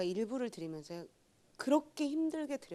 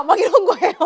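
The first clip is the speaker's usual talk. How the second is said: loud laughing exclamation; real laughter, much higher and louder; laughing shout; 10 semitones higher, 20 dB louder than usual. Real, not acted. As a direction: laugh it out loudly. Laughing after the outburst.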